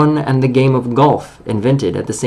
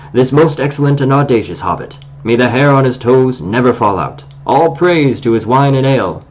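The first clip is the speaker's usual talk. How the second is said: pompous dwarf speech. Acted. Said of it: "This was Thorin's style".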